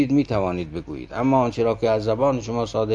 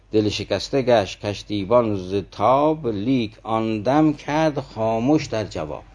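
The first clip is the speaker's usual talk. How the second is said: slow, measured verse reading; poem recitation; slower than usual. Acted. Preacher reciting Rumi's couplet to his listeners, slow and measured. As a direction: let each half-line of the couplet settle slowly.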